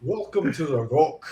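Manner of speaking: lightly voiced Scottish film star impression; measured mock-Scottish actor voice; Sean Connery. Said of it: "it's just Sean Connery".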